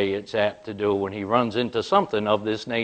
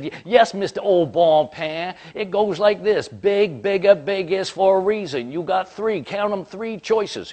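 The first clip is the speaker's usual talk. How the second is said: much higher and louder, spelling it out in scorn; lecturing rant; 8 semitones higher, 3 dB louder than usual. Retold or imitated. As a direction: lecture the clerk like a child, fed up. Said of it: "Oh, he kept going".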